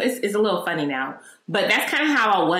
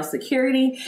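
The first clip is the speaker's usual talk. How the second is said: raised, higher-pitched retold call; mild retold yell; 5 semitones higher than usual. Shopper retelling her call for security, mild yell. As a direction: lightly imitate yelling for help. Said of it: "I proceeded to yell".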